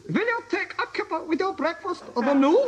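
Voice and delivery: hammed German accent. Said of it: "in a German accent".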